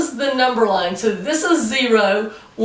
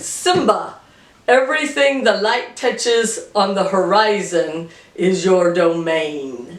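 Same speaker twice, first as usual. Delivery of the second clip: imitating African accent; 4 semitones lower than usual. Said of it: "with his lovely African accent".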